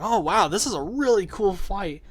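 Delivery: retold wide-eyed admiration, pitch lifted; mildly awed fan reaction; impressed. Player recalling his reaction to a cool fight, impressed. Retelling awe during boss fight.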